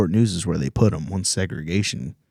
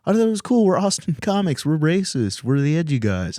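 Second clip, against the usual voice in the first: mocking comic voice; 9 semitones higher than usual. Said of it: "And then they go".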